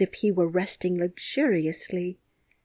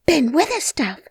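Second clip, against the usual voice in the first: a higher calling-out of the name; 7 semitones higher, 4 dB louder than usual. Acted. Mary calls up to the gardener, higher and louder. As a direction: call his name to get his attention. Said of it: "called out Mary".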